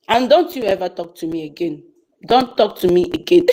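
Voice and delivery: low, stern warning, re-enacted; retold dead seriousness. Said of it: "That was how serious I was".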